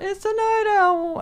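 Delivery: high, excited shout; alarmed shout. Retold or imitated. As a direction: yell it out in alarm. Rigby shouting in story.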